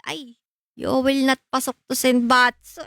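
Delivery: ordinary delivery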